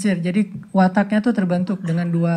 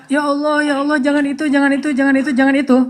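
imitated prayer, higher and insistently repeated; pleading prayer; 6 semitones higher than usual. Wife praying that it not be him, pleading. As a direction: rattle off an anxious mock plea to God. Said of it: "Dia berdoa".

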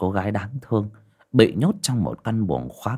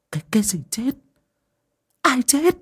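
put-on high, startled old woman; shocked question. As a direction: demand answers in alarm. Old woman alarmed by news.

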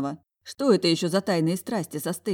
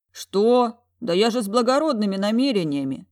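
indignant protest; 5 semitones higher, 5 dB louder than usual. Acted. Dragon protests being slapped.

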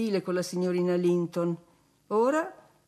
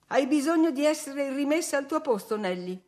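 higher, sharp scolding; angry rebuke; 7 semitones higher than usual. A narrator's reading. Catherine scolding Nelly, a hint of anger. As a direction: put the servant in her place. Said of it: "gridò".

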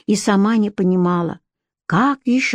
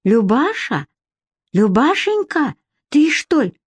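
put-on higher, cracked old village woman calling; 5 semitones higher than usual. A narrator's reading. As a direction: peer and call like an old granny. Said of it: "натреснутый старушечий голос".

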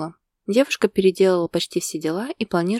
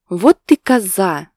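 much louder, slow outcry; exclaiming; 2 semitones higher, 10 dB louder, slower than usual. A narrator's reading. Husband exclaiming at teasing wife, loud. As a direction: yell it in mock outrage. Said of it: "воскликнул Костя".

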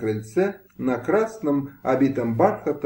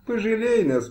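begging plea; 9 semitones higher than usual. A narrator's reading. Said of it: "Кума упала в ноги".

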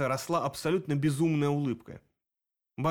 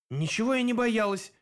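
unsure; 8 semitones higher than usual. A narrator's reading. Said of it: "неуверенно парировала Грета".

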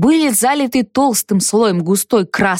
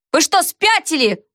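yelling; 7 semitones higher than usual. A narrator's reading. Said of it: "орала я".

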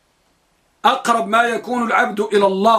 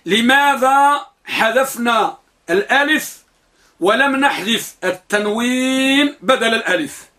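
slow, deliberate; 2 semitones higher, slower than usual. Shown as a demonstration. Teacher slows down so students remember the question, deliberate. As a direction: spell out the question slowly and clearly. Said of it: "وأقولها مرة واحدة ولا أعيدها".

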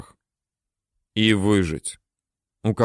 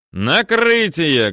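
higher, slow shouted confirmation; 5 semitones higher, much slower than usual. A narrator's reading. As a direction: call it down firmly. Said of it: "кричит Теренчук".

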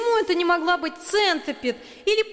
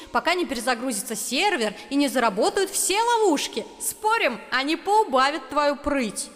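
gloating; 10 semitones higher than usual. A narrator's reading. Girl gloating with spell.

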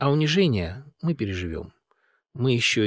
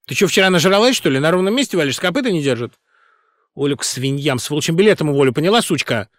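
louder, scornful threatening; rough threat; 5 semitones higher, 9 dB louder than usual. A narrator's reading. Singer threatening the director with firing, angry. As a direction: sneer and threaten her.

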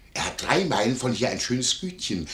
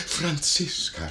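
higher, drawn-out imitated cry; retold calling out; 4 semitones higher, much slower than usual. Innkeeper quotes the lady calling her maid, imitated cry. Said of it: "rief sie".

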